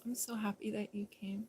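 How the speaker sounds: whispered, tender. Real, not acted. To Mikey, glad he came, whispering. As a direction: whisper it close and fond.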